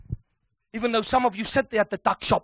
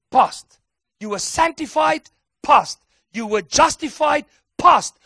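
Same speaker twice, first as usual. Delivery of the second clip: emphatic preaching shouts; 4 semitones higher, 5 dB louder than usual. Acted. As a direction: call out each past loud and sharp. Preacher hammering each "past.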